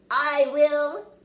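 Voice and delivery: put-on excited kid volunteering; eager declaration. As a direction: announce it proudly. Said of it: "declared Crispin".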